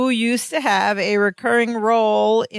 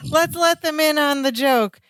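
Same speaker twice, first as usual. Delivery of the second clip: higher-pitched playful bluff; acted-out cover story, pitched up; covering with a quick bluff; 5 semitones higher than usual. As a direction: play at passing it off as a joke. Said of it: "thinking quick on his feet".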